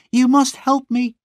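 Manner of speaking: high, pleading sister's cry near tears; tearful cry. A narrator's reading. Sister begging her brother, crying high and desperate. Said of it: "she cried".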